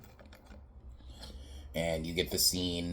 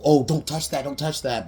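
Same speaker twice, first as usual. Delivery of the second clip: fussy host; 7 semitones higher, 6 dB louder than usual. Retold or imitated. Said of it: "she's initially like".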